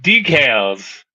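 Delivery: decals as dee-kales, Southern drawl; Southern accent. Shown as a demonstration. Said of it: "that sounds pretty southern".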